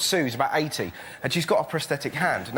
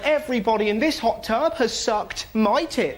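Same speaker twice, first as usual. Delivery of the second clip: higher, slow, half-shouted proclamation; mum's proud announcement; 5 semitones higher than usual. Retold or imitated. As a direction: announce it with glee like a proud mum. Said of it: "My mum looked up and went".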